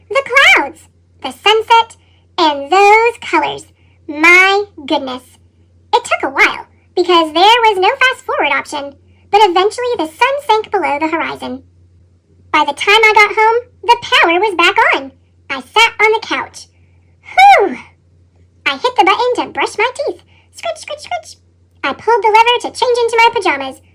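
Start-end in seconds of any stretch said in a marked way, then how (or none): 2.4-5.4 slow, low, hushed wonder; awed. Acted. Potato admiring the sunset colours, slow and awed. 17.2-17.8 loud high relieved exhale; relieved whew. Acted. Potato back on his couch, a loud relieved whew. 20.5-21.4 soft, high, breathy scritch; brushing sound. Acted. Narrator voicing the toothbrush as a soft high scritch.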